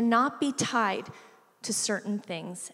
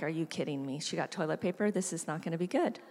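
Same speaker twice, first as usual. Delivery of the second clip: put-on stunned kid; 5 semitones lower, 7 dB quieter, faster than usual. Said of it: "big-eyed, like".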